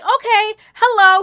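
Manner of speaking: put-on sulky girl forced to say hello; mock reluctant hello. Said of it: "So she's like".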